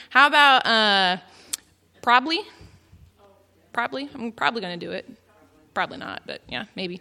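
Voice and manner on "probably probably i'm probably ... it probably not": "probably" squeezed to PROB-lee; "probably" with the middle swallowed; Texan slurring. Shown as a demonstration. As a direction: say "probably" in two syllables. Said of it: "probably instead of probably".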